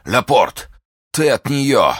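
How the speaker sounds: high, strained call; wounded duke calling his visitor; stricken recognition. A narrator's reading.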